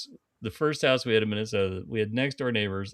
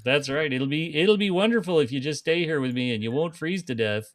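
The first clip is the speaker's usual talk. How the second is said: put-on higher, playful Minnesota accent; 3 semitones higher than usual. Coaxing her to stay by the fire, Minnesota accent. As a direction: coax in mock Minnesotan. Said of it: "the Minnesota".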